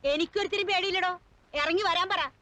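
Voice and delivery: indignant grandmother refusing to be hushed; defiant challenge to come out; scolding, unafraid; defiant, angry commotion. Acted. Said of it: "ഇവിടെന്താ ഒരു ബഹളം".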